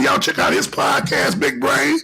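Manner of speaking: ordinary talk, nothing marked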